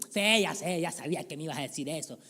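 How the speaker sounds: quick, put-out congregant talking back; a touch of irritated sarcasm; annoyed brush-off. Acted. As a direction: rattle it off like you're fed up with the pastor. Congregant brushing off pastor's answer.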